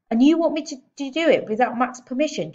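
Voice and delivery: can't believe what she asks; father stunned by daughter's plan; incredulous. A narrator's reading. Dad incredulous.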